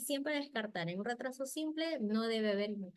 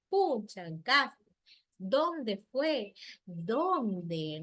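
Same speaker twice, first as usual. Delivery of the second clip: lively exclamation; 6 dB louder, much slower than usual. Acted. Parent voicing child's bump.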